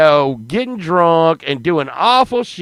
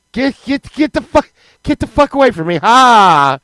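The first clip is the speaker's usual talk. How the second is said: high, stammered shout ending in a cry; mock panicked yell; 6 semitones higher, 5 dB louder than usual. Four-year-old refusing to laugh for clowns, high panicked yelling. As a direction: yell high to drive them off.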